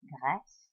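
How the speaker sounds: "Grèce" with the voice dipping down on the è; dipped vowel in Grèce. Shown as a demonstration. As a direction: drop the pitch on the è of "Grèce". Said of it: "so you dip your voice down".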